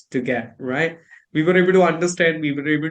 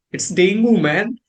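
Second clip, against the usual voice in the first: louder, higher correction, "dengue" as "DENG-goo"; insistent villager; 5 semitones higher, 4 dB louder than usual. Acted. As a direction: put them right as a villager would. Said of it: "They will tell you".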